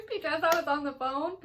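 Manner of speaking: exaggerated guilty confession; hammed-up sheepish answer. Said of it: "And I said".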